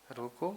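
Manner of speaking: "रोको" rising, then a clear stop; pause after word. Shown as a demonstration. Teacher marking where the pause belongs, stop after रोको. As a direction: say रोको and halt. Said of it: "के बाद pause लेना था".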